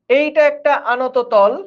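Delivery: একটা drawn out slowly and leaned on; slow teacherly emphasis on একটা; slow, stressed repeat. Shown as a demonstration. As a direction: spell out "এইটা একটা আনত তল" slowly, hitting একটা. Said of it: "যে এইটা একটা আনত তল".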